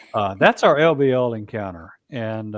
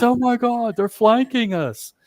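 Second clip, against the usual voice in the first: put-on British accent, pitched way up; 13 semitones higher than usual. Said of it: "in his British accent".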